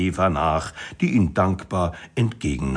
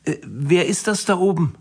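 high, puzzled questioning voice; hesitate, then ask in a high pitch; baffled tourist; 10 semitones higher than usual. A narrator's reading. Tourists ask a local about the monument, baffled. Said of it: "von ratlos auf das Denkmal blickenden Touristen gefragt".

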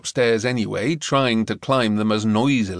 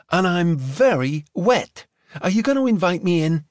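put-on American girl voice; 6 semitones higher than usual. A narrator's reading. Gemma's voice.

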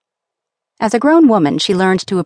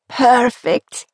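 higher, bright burst of delight; delighted exclamation; 6 semitones higher than usual. A narrator's reading. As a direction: cry out in joy at the baby. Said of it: "Andrea cried".

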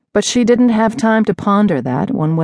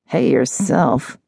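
slow, low and sultry; slower than usual. Acted. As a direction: purr it slowly, seductive. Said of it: "a low, sultry voice replied".

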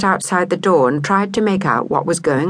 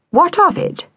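defiant, pitched up high; possessive, high challenge; 12 semitones higher, 3 dB louder than usual. A narrator's reading. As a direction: snap back, proud and possessive. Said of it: "Delilah said possessively".

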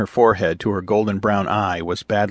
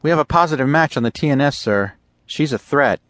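put-on higher, eager young officer voice; eager lieutenant; 6 semitones higher, 3 dB louder than usual. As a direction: report the find with keen urgency. Lieutenant confirms threat.

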